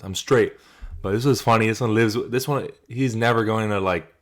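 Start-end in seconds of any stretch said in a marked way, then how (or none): 0.0-0.5 a hint of Yuri's accent; imitating Yuri. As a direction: lightly mimic his "I'm straight". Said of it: "I can't even do his fucking voice".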